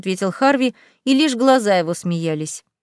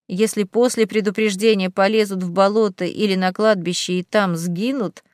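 rumbling demon; 3 semitones lower than usual. Acted. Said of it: "пророкотал он".

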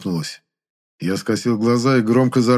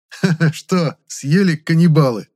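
gloating laugh through the words; mocking captive's nasty chuckle; spiteful chuckle; 7 semitones higher, 5 dB louder than usual. A narrator's reading. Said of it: "зло хохотнул я".

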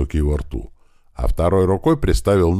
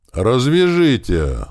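high, very slow begging whine; a tied man begging again; desperate plea; 7 semitones higher, 4 dB louder, much slower than usual. Acted. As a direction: stretch it out, pleading in pain. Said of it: "снова взмолился Михайлов".

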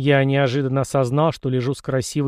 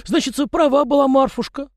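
mild dismayed sigh; 12 semitones higher, 3 dB louder than usual. A narrator's reading. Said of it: "охнул мужичок".

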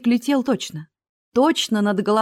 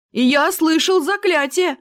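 higher, louder indignant shout; loud backing up; 9 semitones higher, 5 dB louder than usual. A narrator's reading. Barker loudly backs the dwarf's accusation. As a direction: shout your support for the accusation. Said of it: "подтвердил зазывало".

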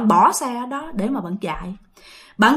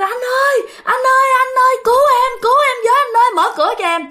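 terrified crying plea; 11 semitones higher, faster than usual. Retold or imitated. Terrified man banging on the door, begging the shopkeeper for help, high and crying. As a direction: beg through tears to be let in. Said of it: "bạn kêu".

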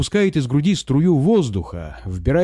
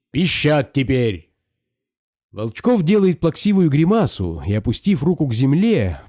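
a hint of a pompous squire scolding; scolding master. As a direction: lecture the poacher with mock outrage. Volchkov scolds the peasant. (барин отчитывает мужика, слегка сердито)

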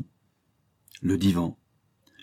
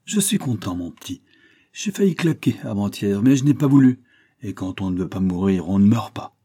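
put-on old painter; 5 dB louder than usual. Old master receives his pupil.

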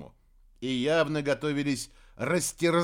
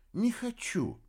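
fairy voice; 9 semitones higher, slower than usual. A narrator's reading. Fairy admits truth.

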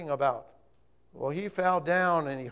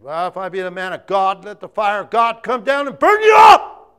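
high, loud fiery shout; prophet's thunder; 6 semitones higher, 20 dB louder than usual. Acted. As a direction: call down fire in fury. Elijah calls down fire.

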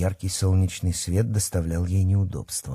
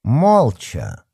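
curt; 4 semitones higher, 5 dB louder than usual. Acted. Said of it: "отрезала старшая вожатая".

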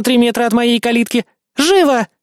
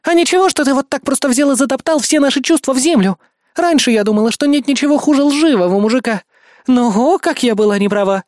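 high, heated accusing rant; indignant tirade; 9 semitones higher, 3 dB louder than usual. A narrator's reading. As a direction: pour out the grievance angrily, pitched up. Indignant woman tirades at narrator.

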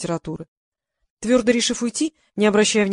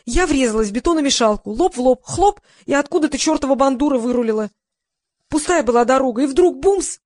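excited retelling; 5 semitones higher, 5 dB louder than usual. Acted. Lisa recounts crash excitedly.

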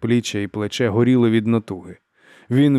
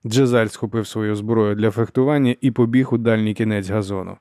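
plain reading voice

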